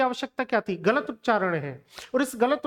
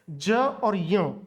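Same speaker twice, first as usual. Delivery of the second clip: ज और य drawn out very slowly; teacher sounding out the letters slowly; slow demonstration; 2 semitones lower, much slower than usual. Shown as a demonstration. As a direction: spell out ज और य slowly for the class. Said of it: "दो वर्णों से मिलकर के बनता".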